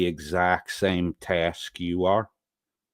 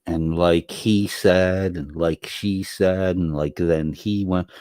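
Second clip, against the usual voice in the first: put-on slow, drawn-out teenage "like" chatter; mock teen talk; 4 dB louder, slower than usual. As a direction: imitate a Valley Girl teen. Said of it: "kids used to talk like that".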